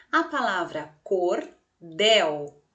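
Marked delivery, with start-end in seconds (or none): 1.0-2.6 "cordel" split slowly into cor and del; two separate syllables. Shown as a demonstration. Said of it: "tem duas sílabas". ("cordel" separado em duas sílabas: cor-del)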